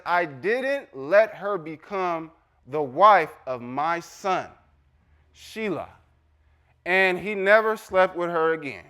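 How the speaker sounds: measured reading with emphatic pauses; scripture reading. Acted. Preacher reading Tamar's story to congregation, emphatic scripture reading. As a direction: read it out to the congregation, phrase by phrase.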